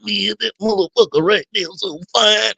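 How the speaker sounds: high-pitched put-on voice of a coworker; coworker impression. Man imitates a guy he used to work with, mocking high voice. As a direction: mimic a guy's voice and accent, pitched well up. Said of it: "his voice was just like that".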